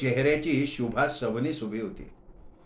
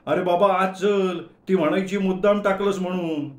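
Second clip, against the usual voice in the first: frightened plea; 4 semitones higher, 3 dB louder than usual. Acted. Frightened Manya pleads with Gaju.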